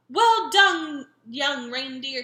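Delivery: loud, bright praise shouted out; cheerful shout. A narrator's reading. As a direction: cheer the reindeer on. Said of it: "he shouted cheerfully".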